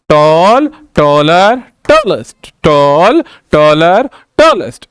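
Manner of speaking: "टॉल", "टॉलर", "टॉलेस्ट" each set apart and stretched; chant-like teacher's list of "टॉल, टॉलर, टॉलेस्ट"; single-syllable demonstration. Shown as a demonstration. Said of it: "बोलते हुए single syllable की बात". ("टॉल, टॉलर, टॉलेस्ट" को खींचकर, अलग-अलग बोलें)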